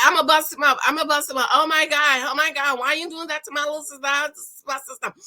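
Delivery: mock furious brother; mock threat. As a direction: brother threatening the groom, half-serious. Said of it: "Was like".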